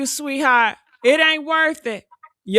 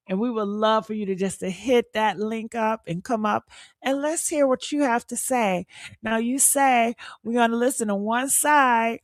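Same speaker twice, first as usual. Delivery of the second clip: lower, sugary coaxing invitation; nice and sweet; 3 semitones lower than usual. Shown as a demonstration. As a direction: coax her gently, nothing angry. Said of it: "I came off nice and sweet".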